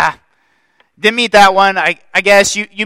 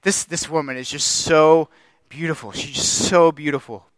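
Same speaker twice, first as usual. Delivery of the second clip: tender; 5 dB louder than usual. Retold or imitated. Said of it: "And I'm just thinking".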